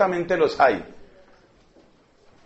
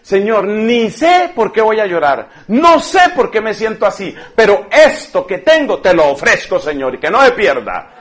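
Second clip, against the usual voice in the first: prayer demo; 4 dB louder than usual. Shown as a demonstration. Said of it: "usted dígale al Señor".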